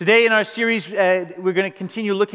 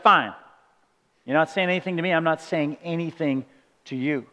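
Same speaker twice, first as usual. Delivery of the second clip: sulky silent treatment; 3 semitones lower, 4 dB quieter than usual. Retold or imitated. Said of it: "tried the silent treatment".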